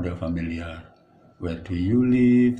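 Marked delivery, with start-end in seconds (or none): 1.4-2.6 slow, louder example phrase. Shown as a demonstration. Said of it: "Tuh akrab".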